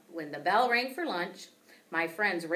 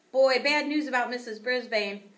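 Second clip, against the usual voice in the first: mild loud voice; 6 semitones higher, 7 dB louder than usual. A narrator's reading. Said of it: "A J's loud voice".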